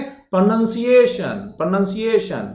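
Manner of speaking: "प्रोनंसिएशन" with "nun", spread out; careful falling "प्रोनंसिएशन"; model pronunciation. Shown as a demonstration. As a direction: say "प्रोनंसिएशन" slowly for repeating. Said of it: "उच्चारण करके देखिए आप भी".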